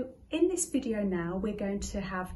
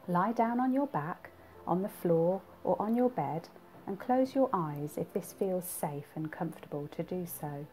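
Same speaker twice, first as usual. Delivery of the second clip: measured guided relaxation with lifted counts; guided body scan. Acted. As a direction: talk them through tensing, then let each release drop. Repeats the body scan exercise.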